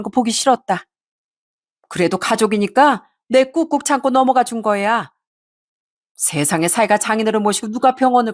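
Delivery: mildly voiced nagging reproach; reproachful mother-in-law. Mother-in-law demanding a share from her daughter-in-law, lightly acted reproach. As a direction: press the guilt, stretching some line endings.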